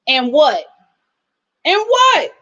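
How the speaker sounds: mock challenge rising on the repeat; defiant comeback. Imitating someone defending her Irish mama, defiant. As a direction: act out a sassy retort, pushing harder the second time.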